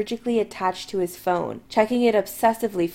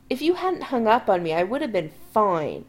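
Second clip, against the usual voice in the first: grumbling. Acted. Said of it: "Chris grumbles".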